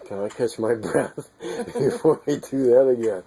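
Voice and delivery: laughing. Real, not acted. Breathless laughing after the gasp.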